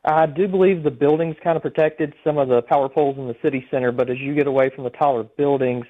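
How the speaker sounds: over a phone line; speaking down a phone line. Real, not acted. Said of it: "we have you on the phone".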